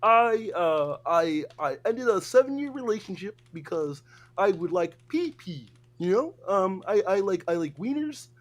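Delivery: mildly hammed-up Kermit the Frog confessing; Kermit impression. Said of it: "they made me talk like fucking Kermit".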